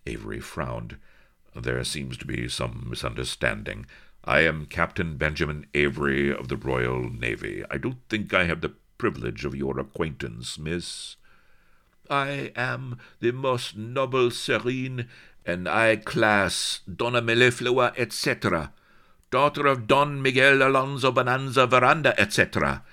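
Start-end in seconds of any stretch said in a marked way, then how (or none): 1.5-11.2 polite and measured, a hint of the navy man; lightly voiced English officer; calm captain. Calm naval captain speaks. 12.1-22.8 high, loud proud declaration; high, loud accented noblewoman boasting her titles; haughty Spanish lady. Acted. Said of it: "flamed the flashing-eyed beauty".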